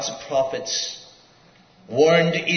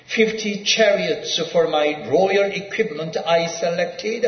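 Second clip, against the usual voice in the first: raised, louder reading of the king's inscription; reading a quotation; 3 semitones higher, 3 dB louder than usual. Acted. Preacher reading Sargon's palace inscription aloud, raised. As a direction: declaim the royal boast as a quote. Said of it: "in quote".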